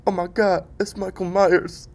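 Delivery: high, loud, hammed-up shriek of alarm; bad impression of a rapper. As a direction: squeal like a startled movie star. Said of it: "I don't even know what that rapper sounds like".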